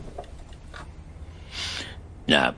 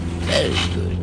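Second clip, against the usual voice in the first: ordinary talk, nothing marked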